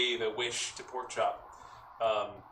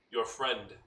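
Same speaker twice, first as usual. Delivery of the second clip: a hint of a god's voice, long pauses; lightly voiced booming god. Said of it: "booming voice echo, deep, resonant, and imposing".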